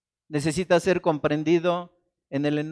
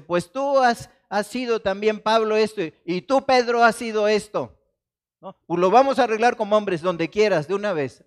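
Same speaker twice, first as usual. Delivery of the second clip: raised, combative voice calling someone out; challenging quarrel; 3 semitones higher, 3 dB louder than usual. Acted. Preacher voicing Paul challenging Peter, heated and combative. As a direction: square up like a man ready to fight.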